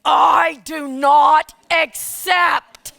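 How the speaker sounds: slow, loud, spaced, with a laugh breaking through; firm refusal, laughing. Retold or imitated. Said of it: "And I said".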